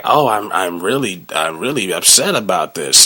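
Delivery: mock fake upset. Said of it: "She's like".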